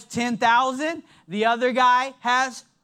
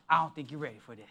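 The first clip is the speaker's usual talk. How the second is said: much lower and much softer, a playful hush; soft teasing; 9 semitones lower, 8 dB quieter, much faster than usual. Real, not acted. Pastor teases the congregation in a low hush. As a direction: drop your voice low and tease them.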